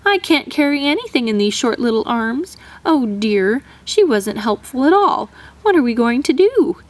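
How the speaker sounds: lightly voiced crying mother; tearful. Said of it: "cried harder than ever".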